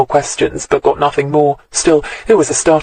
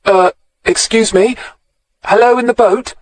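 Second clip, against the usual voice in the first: raised, tentative call into the boat; 8 semitones higher than usual. A narrator's reading. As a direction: call out politely to an unseen person. Tommy calls out to boat.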